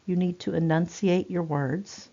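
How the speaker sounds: careful, separated articulation for a hard-of-hearing patient; enunciated words. Shown as a demonstration. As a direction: crisply enunciate each word. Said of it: "this is how we speak to people".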